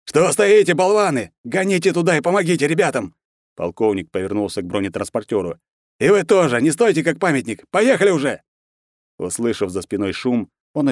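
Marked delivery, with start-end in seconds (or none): 0.0-3.1 high, loud order to his soldiers; furious colonel yelling at men; angry shout. A narrator's reading. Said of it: "закричал". 6.0-8.4 high, loud order to his soldiers; furious colonel yelling at men; angry shout. A narrator's reading. Colonel orders armored car.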